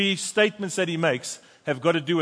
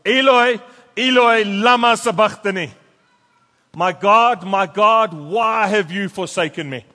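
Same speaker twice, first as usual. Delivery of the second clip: a loud, anguished cry, higher and louder; 3 semitones higher, 7 dB louder than usual. A narrator's reading. Preacher reading Jesus' cry from the cross, loudly. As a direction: cry it out to God in agony. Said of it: "he cries out with a loud voice".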